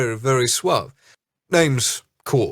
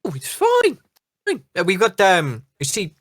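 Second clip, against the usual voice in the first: captain voice; 8 semitones higher than usual. Acted. Captain brushing off worry.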